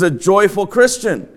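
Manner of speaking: dry mock praise of the congregation; mildly sarcastic compliment. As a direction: say it tongue in cheek. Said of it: "That meant to be sarcastic".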